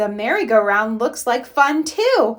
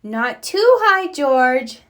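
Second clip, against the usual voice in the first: calling out; 3 semitones higher, 4 dB louder, slower than usual. Acted. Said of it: "says Mummy Pig".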